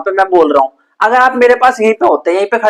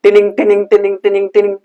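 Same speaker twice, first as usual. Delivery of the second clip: quick repeated tinning tinning; rapid ticking sound; faster than usual. Shown as a demonstration. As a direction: tick it fast like a vibrating object. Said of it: "rapid motion करना है". (तेज़ टिनिंग टिनिंग की आवाज़)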